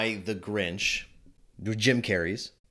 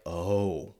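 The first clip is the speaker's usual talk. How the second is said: high, loud mock gasping "oh"; gasping parents; 10 semitones higher, 4 dB louder, much slower than usual. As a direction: act out the shocked parents. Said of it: "they're like".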